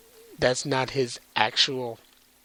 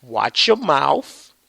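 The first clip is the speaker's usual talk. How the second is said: threatening whisper; 5 dB louder, slower than usual. Retold or imitated. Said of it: "Lord Zed's like".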